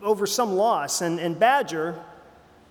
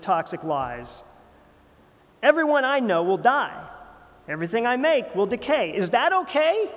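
rising, louder distressed outburst, climbing higher to the end; upset squirrel; 3 semitones higher, 3 dB louder than usual. Acted. Pastor voicing the grieving squirrel's angry text, building up. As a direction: read the squirrel's text as growing anguish and anger. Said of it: "Squirrel's getting upset".

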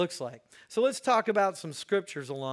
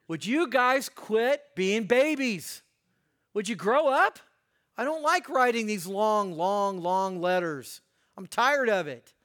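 exasperated Paul; 2 semitones higher, 3 dB louder than usual. Acted. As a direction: plead wearily with overgrown babies to grow up. Acts Paul scolding the Corinthians.

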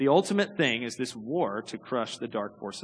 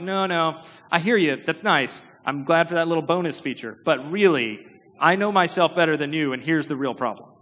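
dismissive brush-off; 3 semitones higher, 5 dB louder than usual. Retold or imitated. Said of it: "that we're like".

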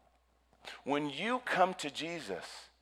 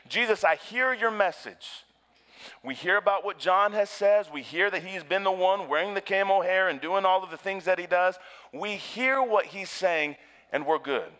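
smug Pharisee; 7 semitones higher, 5 dB louder than usual. Pretend. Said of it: "The Pharisees are essentially saying".

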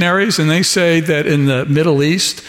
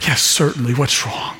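gentle mock-compassionate reassurance; compassionate church voice; 3 semitones lower than usual. Shown as a demonstration. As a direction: put on a caring pastor voice. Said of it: "You know, like that".

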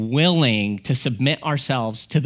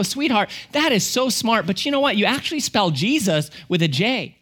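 put-on higher, sweet parent-to-toddler voice; imitated coaxing dad, pitched up; gentle father; 6 semitones higher than usual. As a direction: gently correct a small child. Father gently corrects toddler daughter.

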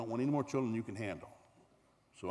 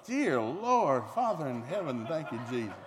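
hammed-up dismay; a mock cry to the Lord at the sight of the baby; mock prayer; 2 semitones higher, 5 dB louder than usual.

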